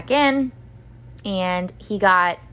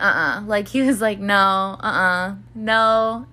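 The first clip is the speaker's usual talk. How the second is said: imitating boyfriend's denial; 3 dB louder, slower than usual. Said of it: "didn't wanna come in".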